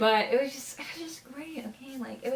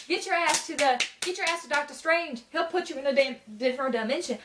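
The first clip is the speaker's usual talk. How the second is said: higher, louder retold yell at the character; urging at the screen; 6 semitones higher, 3 dB louder than usual. Fan retelling what she yelled at Peter, higher and louder. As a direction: tell him off like yelling at a movie screen.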